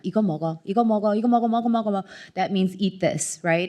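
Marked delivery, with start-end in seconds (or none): 0.0-2.0 grandmother's urging. Retold or imitated. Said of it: "my grandmother used to say to me all the time".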